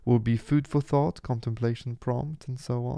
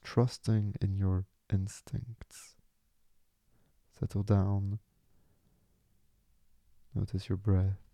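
calm, unhurried meditation voice with long pauses; soothing meditation lead, leaving room to breathe; guided meditation. Acted. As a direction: gently guide them into letting go, phrase by phrase.

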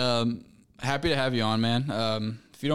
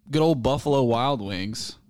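big ring announcer call, louder; boxing announcer; 2 semitones higher, 7 dB louder than usual. Real, not acted. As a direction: announce it like a title fight. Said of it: "Sound like a boxing announcer".

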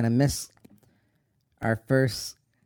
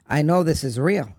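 louder, rising insistence; urgent protest; 3 semitones higher, 6 dB louder than usual. Retold or imitated. Son refusing his mother's countdown, urgent and louder. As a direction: plead that it is real.

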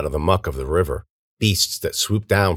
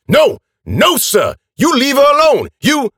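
high, loud frantic shouting; angry protest; 8 dB louder than usual. A narrator's reading. Old man orders attackers away from girl, shouting. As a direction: shout them off, very agitated.

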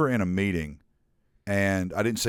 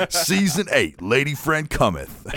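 laughing mock proclamation; 5 semitones higher than usual. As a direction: giggle through a pompous herald line. Repeating mock grand announcement.

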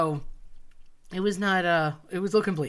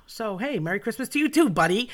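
sarcastic cheer; 6 semitones higher, 4 dB louder than usual. Acted. Sarcastic retort to grim warning.

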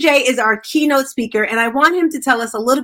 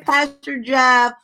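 normal talking voice

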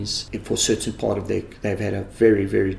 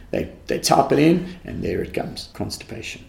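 normal talking voice

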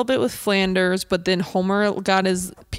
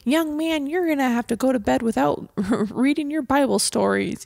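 higher-pitched, lightly voiced scolding; mock scolding parent; 6 semitones higher than usual. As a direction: scold like a pious parent, half laughing. Voicing a parent scolding a son.

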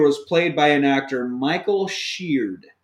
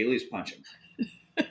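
deadpan; 4 semitones lower, 12 dB quieter, much slower than usual. Pretend. Slow deadpan punchline.

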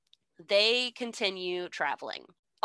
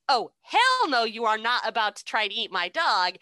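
sassy outrage; 3 semitones higher, 4 dB louder than usual. Retold or imitated. Dorothy defends dog from lion.

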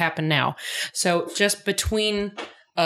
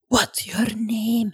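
slow, higher mock Scottish voice; mysterious Scottish stranger, hammed up; Scottish accent; 4 semitones higher, much slower than usual. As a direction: put on a drawn-out Scottish accent. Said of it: "I gave him a Scotch accent".

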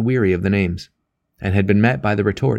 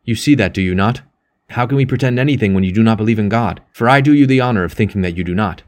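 louder, pressing, earnest appeal; impassioned plea; 5 dB louder than usual. Acted. Percy urges his friend about God, loud and pleading. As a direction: plead hard and insistently. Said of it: "cried Percy".

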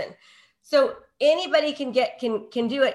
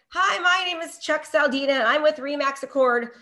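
bland intro demo; 3 semitones higher than usual. Shown as a demonstration. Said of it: "They're turning Chuck off".

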